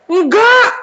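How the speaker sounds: high, sharp exclaimed no; emphatic refusal. Acted. Father refuses to make son a servant, emphatic. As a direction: cut the idea off at once.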